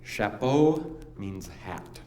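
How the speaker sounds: Chapeau said slowly the French way, sha-POH; French words. Shown as a demonstration. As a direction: spell out Chapeau like a teacher. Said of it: "here's an example".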